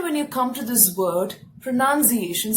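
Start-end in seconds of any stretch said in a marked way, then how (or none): 1.6-2.5 PRONUNCIATION with 'nun' as second syllable; correct pronunciation. Shown as a demonstration. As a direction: say PRONUNCIATION as pro-NUN-see-AY-shun. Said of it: "some people pronounce it as".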